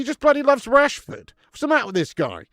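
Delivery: loud incredulous rant; exasperated rant. Real, not acted. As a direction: throw your hands up at the manager. Ranting about manager picking Rashford.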